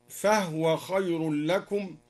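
"فهو" with no vowel on the ha, fahwa; silent-vowel ha. Shown as a demonstration. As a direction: recite slowly, closing "فهو" on a still h. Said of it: "وسكن الهاء من". (تسكين الهاء في "فهو")

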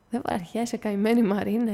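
calm his wife kindly; καλόβουλος τόνος; good-natured. Acted. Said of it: "είπε καλόβουλα".

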